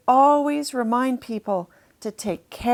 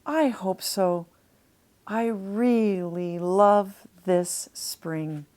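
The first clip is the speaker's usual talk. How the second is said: slow, lower sleepy manatee; drowsy Lumpy; 3 semitones lower, much slower than usual. Acted. Lumpy answers Chester at bedtime, slow and drowsy. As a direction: drift off while saying it.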